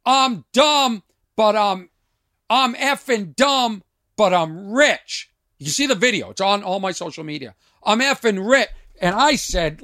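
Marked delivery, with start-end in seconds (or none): 0.1-5.3 mock yell, higher and slowed down; drawn-out, raised-voice imitation of a heckler; retold yell. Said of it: "he yells out". 7.8-8.7 mild mock yell, pitched up; raised-voice quote, higher than usual; retold yell. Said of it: "he yells out".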